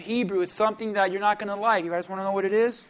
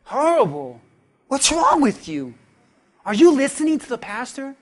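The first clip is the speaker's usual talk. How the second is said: mock insult. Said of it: "tell him the truth".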